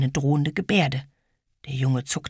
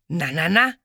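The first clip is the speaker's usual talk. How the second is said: envious; 3 semitones higher, 3 dB louder than usual. Acted. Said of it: "warf Ede neidisch ein".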